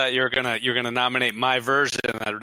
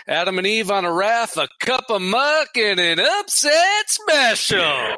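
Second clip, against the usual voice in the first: diner cook calling orders; 10 semitones higher than usual. Pretend. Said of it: "That's a classic".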